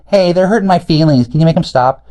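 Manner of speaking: high, whining plea to the authorities; mock whiny complaint. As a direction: whine it like a wounded child. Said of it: "complain to ... and say".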